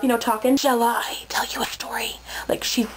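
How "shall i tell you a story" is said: imitating an eerie, half-whispered storyteller; possessed storyteller. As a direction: slip into a breath-light possessed narrator. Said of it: "like, she's possessed".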